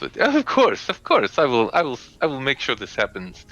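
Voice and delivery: high, flustered noblewoman voice, settling down; flustered, eager to please; nervous lady's reply. Acted. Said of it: "sort of chuckles nervously to herself".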